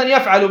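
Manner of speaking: "يفعل" said as yaf'alu; middle vowel fatha. Shown as a demonstration. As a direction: say "يفعل" with "a" after the ayn. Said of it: "بالفتح".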